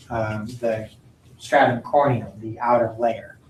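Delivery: usual speaking voice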